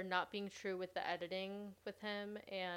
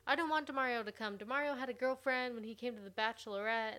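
mock Raven; 3 semitones higher than usual. Mocking Raven's complaint.

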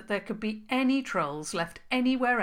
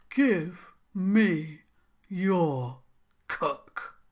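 cross; 5 dB louder, much slower than usual. A narrator's reading. Troll king demanding the princess's cook, mildly cross. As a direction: grumble the order like a sulky king.

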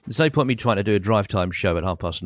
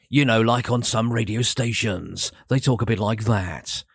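flatline DJ. Shown as a demonstration. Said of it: "it kind of flatlines and it kind of goes off at the end".

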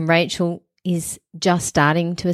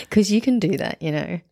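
stifled giggles; 2 semitones higher than usual. Real, not acted. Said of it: "I'm trying not to laugh".

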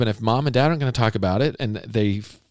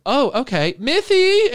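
much higher, louder sing-song call of the son's name; mom calling out; 5 dB louder, slower than usual. Retold or imitated. Mom calling her son in, high and loud. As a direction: call the kid into the room.

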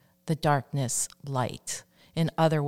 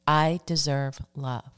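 slow affirmation. Shown as a demonstration. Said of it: "Say that with me now".

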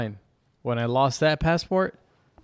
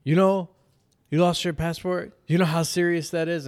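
lightly mocking official's lecture; mildly patronizing retold scolding; condescending; 4 semitones higher than usual. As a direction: talk down as if to a child. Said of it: "talking to me like I was a kid".

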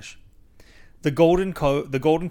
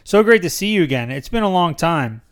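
loud, delighted welcome with swooping pitch; excited greeting; 4 semitones higher, 7 dB louder than usual. A narrator's reading. Driver welcomes Mister Townsend back after a long time, excitedly. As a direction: greet a long-missed regular with high excitement. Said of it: "he said excitedly".

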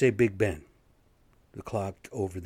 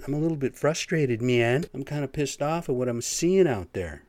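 imagined frustrated outburst; 5 semitones higher, 5 dB louder than usual. Pretend. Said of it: "Part of me wants to say".

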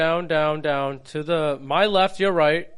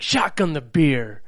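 slow, drawn-out mock command on "Shotgun the beer"; imitated emphasis; slower than usual. Co-host mimicking the host getting into it, slow emphasis. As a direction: stretch "Shotgun the beer" out, mimicking a hype man. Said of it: "because you're like".

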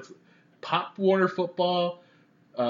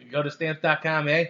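put-on New York accent. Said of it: "New York accent when you do a stamps dot com".

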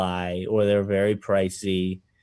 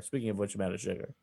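Rodney Dangerfield; 10 dB quieter, faster than usual. Real, not acted. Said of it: "that sound very Dangerfieldy to me".

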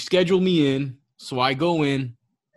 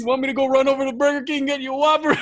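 teasing; 10 semitones higher, 5 dB louder, faster than usual. Retold or imitated. Teasing friend during tattoo.

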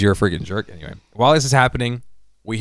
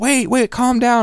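mock soothing; 13 semitones higher, 3 dB louder than usual. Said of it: "they're like".

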